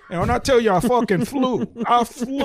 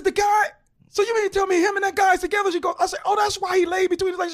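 retold disbelief; 9 semitones higher, faster than usual.

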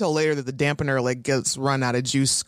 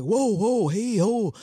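startled backing off; 5 semitones higher, slower than usual. Retold or imitated. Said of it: "Andrew and Jonathan like".

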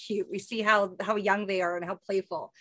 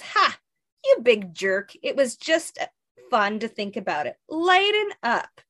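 teasing scold. Acted. Alapex scolding in comic read.

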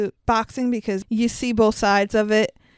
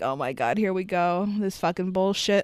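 weary groan; 3 semitones lower, 4 dB quieter than usual. Retold or imitated. Exasperated reaction retold.

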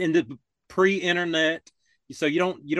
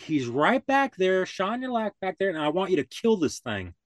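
higher, insistent orders, mock upset; retold upset homeowner; 5 semitones higher than usual. Upset homeowner sending the deputy into the woods, insistent. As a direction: imitate a worked-up man giving orders. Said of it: "he was really upset by it".

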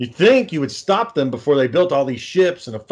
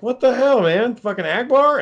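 much higher, incredulous cry; outraged disbelief; 9 semitones higher than usual. Retold or imitated. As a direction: fan shocked that Akbar died. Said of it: "And you're like".

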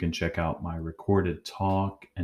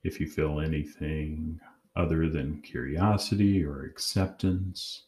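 calm, measured guided-meditation voice with long pauses; unhurried meditation leader, pausing between phrases. Acted. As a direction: guide them gently inward, leaving long silences.

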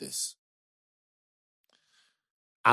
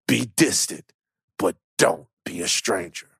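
movie trailer voice; 2 semitones lower than usual. Pretend. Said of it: "There it is, Trailer Voice Van".

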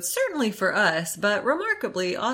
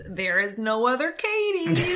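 imitating Katie; 4 semitones higher than usual. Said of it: "The only thing she says is".

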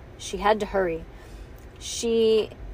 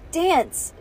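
hissed command; 7 semitones higher, 4 dB louder than usual. A narrator's reading. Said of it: "she hissed".

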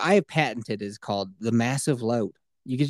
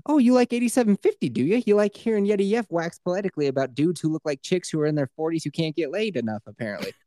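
higher, teasing mock voice; 4 semitones higher than usual. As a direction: tease the listener in a put-on voice. Mocking voice of the listener.

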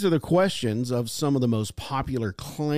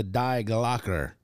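slow German-style title; German pronunciation; 3 semitones lower, slower than usual. Acted. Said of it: "that's how you say it in German".

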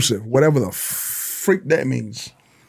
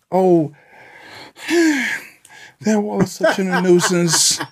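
mock whining complainer; 3 semitones higher than usual. Voicing public complaining about wall.

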